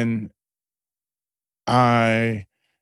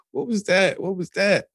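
awed disbelief; 8 semitones higher than usual. Retold or imitated. Crying, asking in shock.

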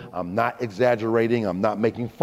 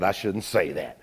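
muttered aside; 5 semitones lower, 5 dB quieter than usual. Real, not acted.

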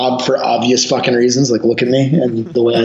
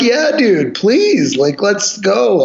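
higher-pitched, eager begging; eager mock plea; 5 semitones higher, much slower than usual. Storyteller replaying his plea to the knifeman, mock eager. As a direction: play up an eager plea for a fight.

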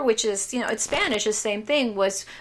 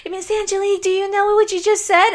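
higher, louder mock teenage boy; imitating a teen boy; 11 semitones higher, 4 dB louder than usual. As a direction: play the cheeky teen student. Voices the young student.

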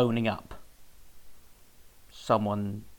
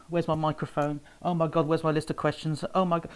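mock panic, pitched up; retold panic; 4 semitones higher than usual. Interviewer recalling a surprise phone call, in retold panic. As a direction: act out a mild flap over missing kit. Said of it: "I start to panic".

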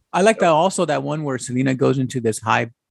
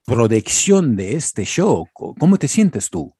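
mock Mexican TV reporter; 4 semitones lower than usual. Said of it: "Start asking me questions".

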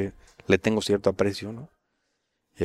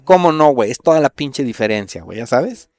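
mock insistent director; 4 semitones higher, 6 dB louder than usual.

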